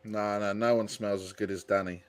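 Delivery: quietly lovesick lament over Danny; softly emotional. Real, not acted. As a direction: murmur it as if choked up. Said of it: "getting a bit emotional now".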